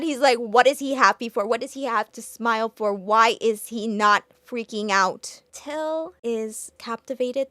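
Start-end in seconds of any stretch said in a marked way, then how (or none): 0.4-5.4 louder, mock-angry rant; imitating anger. Rival raging at the happy boy, mock angry. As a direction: voice his fury a bit louder. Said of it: "He's so mad".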